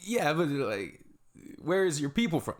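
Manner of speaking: high, pushy mock questioner; a pushy stranger prying into someone's roots, mock high voice; mocking ignorant asker. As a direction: squeeze it up into a prying voice. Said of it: "you'll hear them say".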